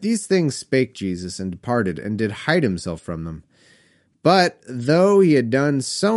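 put-on measured read-aloud of old Bible verse; scripture reading. A narrator's reading. Reads scripture aloud between comments.

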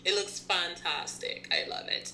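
attempted British accent. Shown as a demonstration. Co-host practicing her British accent on her friend, badly faked British accent. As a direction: put on a hammy British "darling" voice. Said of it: "that sounds nothing like a British accent".

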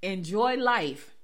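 slow, spaced-out delivery; measured, drawn-out punchline; deliberate quote reading. Real, not acted. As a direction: stretch the words and let the quote land. Announces and reads out the quote.

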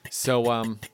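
winded, short of breath; out of breath, pushing through to the end; running out of air. Real, not acted. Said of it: "I'm running out of breath".

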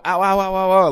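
a hint of squeaky bird cries; mock bird pain. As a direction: voice the bird getting spiked.

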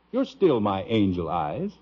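tender. Acted. Husband answers wife tenderly.

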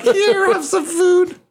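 high, sing-song feeding voice; high coaxing offer. Retold or imitated. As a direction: coax her like feeding a pet. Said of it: "You're like".

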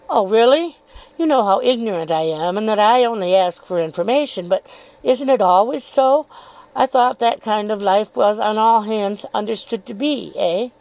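insinuating Miss Dartle. Acted. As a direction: feign innocence while needling.

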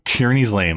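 "Kearney's Lane" with the weight on KEAR; stress on first syllable. Shown as a demonstration. Host showing where Sondheim wanted emphasis in "Kearney's Lane", first syllable stressed. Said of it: "the emphasis on the first syllable".

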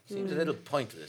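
very soft, low muttered echo; whispered. Acted. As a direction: barely say it aloud. Repeats phrase very softly.

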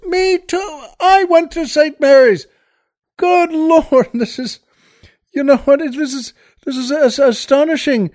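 high, excited astonishment; hammed-up thrilled barfly; astonished pub fellow. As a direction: gush with amazement at the coincidence. Joke character astonished.

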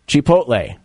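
"Chipotle" as chi-POTE-lay; correct Chipotle pronunciation. Shown as a demonstration. Host quizzing co-host on restaurant name, correct pronunciation. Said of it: "Am I saying it correct?".

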